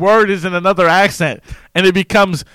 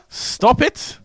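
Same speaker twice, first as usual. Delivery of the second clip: self-scolding, dropping each time; 4 dB quieter, much slower than usual. Real, not acted. Telling himself to stop, shifting voices.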